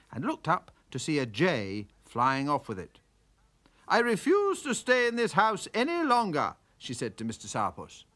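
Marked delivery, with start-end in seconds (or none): 3.9-6.6 high, loud firm refusal; furious wife. Acted. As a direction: put your foot down. Wife gives up in anger.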